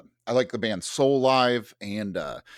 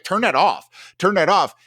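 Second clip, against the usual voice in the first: panicked plea; 5 semitones higher, 4 dB louder than usual. Retold or imitated. Panicking narrator demanding.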